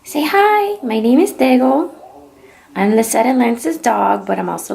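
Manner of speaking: owner speaking for her dog to viewers; voicing the dog. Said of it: "do you wanna say hi".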